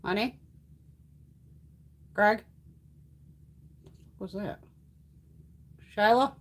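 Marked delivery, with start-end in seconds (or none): 0.0-2.4 calling out. Real, not acted. Calling out to someone unseen. 6.0-6.3 calling out. Real, not acted. Calling for the cat.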